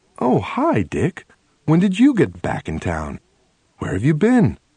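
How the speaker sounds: bright, friendly tone. Gloria turns around to greet the narrator as he passes, in a real friendly and bright voice. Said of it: "says in a real friendly and bright voice".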